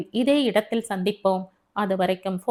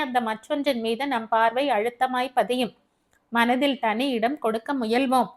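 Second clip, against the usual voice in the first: lightly voiced friend, pitch raised at first; counselling Devi; 4 semitones higher than usual. Devi advises Abi against the contest, lightly voiced reasoning. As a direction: reason it through as a candid friend.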